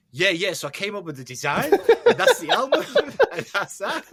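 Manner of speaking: put-on laughing, high New York accent; imitating a musician, New York accent. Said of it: "that's the New York accent"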